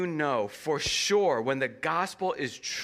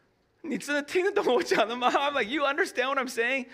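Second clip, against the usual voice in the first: higher, fast, pressing him to understand; urgent insistent asking; 8 semitones higher, much faster than usual. Retold or imitated. Pastor pressing a new believer, urgent and fast. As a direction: push the question out quick and high. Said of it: "And I was like".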